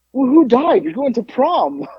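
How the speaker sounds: high, punchy teasing question; mocking incredulity. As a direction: rib them in disbelief. Mocking the prom outfit in retelling.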